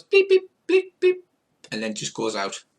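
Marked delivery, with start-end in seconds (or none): 0.0-1.2 high, even electronic beeps; camera light beeps. Retold or imitated. Game master imitating the camera's blinking light, high-pitched beeps. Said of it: "little red blinking light in the camera. It goes".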